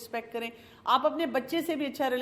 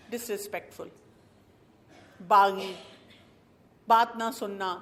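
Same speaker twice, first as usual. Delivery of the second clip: ordinary talk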